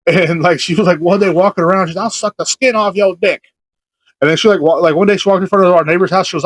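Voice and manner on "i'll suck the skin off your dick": higher, drawn-out mock holler; half-hearted imitated yell, slow; retold yell. Imitating the lady walking around the trailer park, mock yell. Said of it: "she just yelled that".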